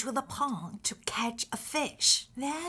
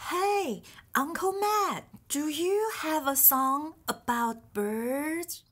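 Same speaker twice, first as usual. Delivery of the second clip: raised voice calling someone; 3 semitones higher than usual. Acted. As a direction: call out high across the room. Calling out to Uncle Matt.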